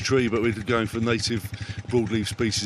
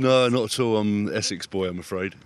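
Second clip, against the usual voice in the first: Essex accent; 3 semitones lower than usual. Real, not acted. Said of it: "Not a Cavan accent".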